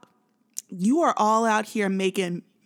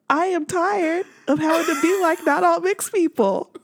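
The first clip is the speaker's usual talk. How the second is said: exasperated; 6 semitones higher, 5 dB louder than usual. Retold or imitated. Exasperated mock protest.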